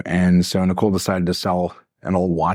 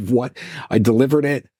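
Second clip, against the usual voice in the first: retold disbelief; 5 semitones higher than usual. Retelling disbelief at buyer's demand.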